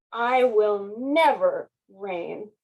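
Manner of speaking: slow, firm vow; determined. Acted. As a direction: set your mind and say it slowly. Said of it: "made a decision".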